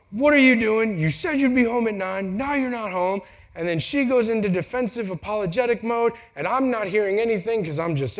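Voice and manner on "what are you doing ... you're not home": a touch of an accusing husband, pitch raised; mock angry husband. Husband greeting late wife with mild mock anger. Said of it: "It's more like".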